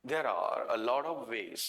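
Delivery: slow, measured repeat of the sentence; slow read-out. Shown as a demonstration. Teacher repeats the student's sentence for the class, slow read-out.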